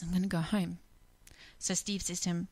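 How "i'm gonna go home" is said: quiet, defeated whisper; whispered answer. Retold or imitated. Old man whispers his grim plan home, hushed. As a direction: barely breathe it out.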